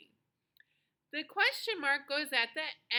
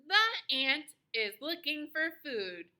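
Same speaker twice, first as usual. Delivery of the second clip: slow, measured statement with a falling end; declarative statement; 2 semitones higher than usual. Shown as a demonstration. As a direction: say FOOD with a falling, finished tone. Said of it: "first sentence, and it has a period".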